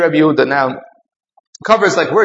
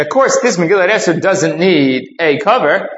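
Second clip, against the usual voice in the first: mildly rhetorical, answer already assumed; matter-of-course, no real question; foregone conclusion. Retold or imitated. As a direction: state it as if obvious. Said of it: "as a foregone conclusion in a question".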